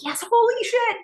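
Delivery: high, thrilled exclamation; excited cheer. Acted. Gordon reacting to Cam's discovery, excited. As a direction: whoop it in amazed delight. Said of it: "They're so excited".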